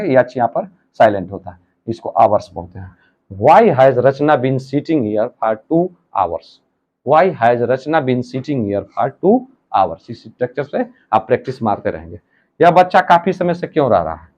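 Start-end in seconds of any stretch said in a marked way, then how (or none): 3.3-10.1 very slow and deliberate; slow dictation. Shown as a demonstration. Teacher dictates the finished sentence to the class, very slow. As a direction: read it word by word for copying.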